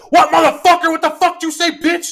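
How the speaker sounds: high-pitched road-rage outburst; worked-up, high yell; retold angry yelling. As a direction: re-enact yelling back out the car window. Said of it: "so I'm yelling out the window".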